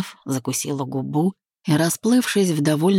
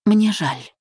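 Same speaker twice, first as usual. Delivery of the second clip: calm regret; 6 semitones higher than usual. Acted. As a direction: say "Мне жаль" simply and calmly, no edge. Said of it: "спокойно произнесла".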